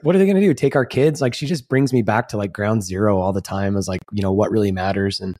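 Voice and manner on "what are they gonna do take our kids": wife's dismissive shrug. Retold or imitated. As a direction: toss it off like the answer is obvious. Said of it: "she's like".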